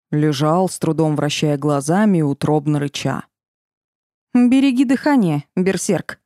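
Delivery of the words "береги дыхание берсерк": mock the fallen bear. A narrator's reading. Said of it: "насмешливо сказала ему Валерия".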